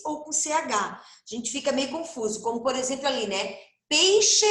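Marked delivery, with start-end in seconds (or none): 3.9-4.5 Peixe punched high and loud; sound demo. Shown as a demonstration. Teacher punches Peixe to show the x sound. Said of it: "peixe e xícara".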